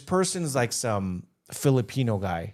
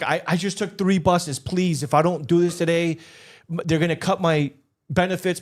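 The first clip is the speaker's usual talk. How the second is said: higher-pitched retold plea; pleading; 4 semitones higher than usual. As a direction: beg the clerk, voice pitched up. Old lady begging at check-in desk.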